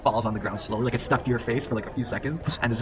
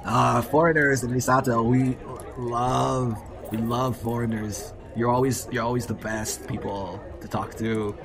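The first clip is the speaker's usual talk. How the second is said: put-on sarcastic drunk welcome; 2 semitones higher, slower than usual.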